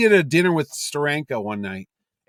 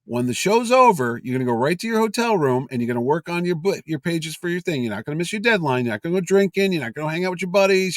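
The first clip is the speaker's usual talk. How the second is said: stern lecture; 3 semitones higher than usual. Retold or imitated. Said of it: "Neil goes".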